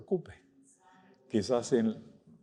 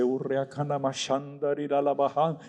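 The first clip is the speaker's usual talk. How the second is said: glossolalia syllables, lightly voiced; speaking in tongues. Pastor recalls praying alone at home, tongues babble. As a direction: reenact babbling in tongues, understated.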